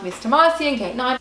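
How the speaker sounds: lightly imitated gate call; airport announcer. Airline paging the late passenger, mock announcement.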